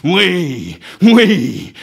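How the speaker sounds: loud, sudden howl of assent; anguished howl. A narrator's reading. Ahab shaken by a terrible sob, howling. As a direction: howl it as if struck to the heart. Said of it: "hurla-t-il".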